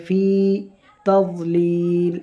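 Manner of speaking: "তাযলিল" with the final vowel held long; three-beat stretch. Shown as a demonstration. Teacher showing the long stop stretch. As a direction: hold "তাযলিল" for three counts. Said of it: "তিন আলিফ টানতে হবে".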